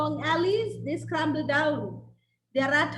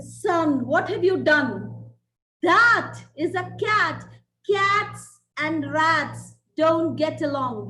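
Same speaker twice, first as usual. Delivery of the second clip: stern scolding mother; 5 dB louder, slower than usual. Acted. Mother scolding her son.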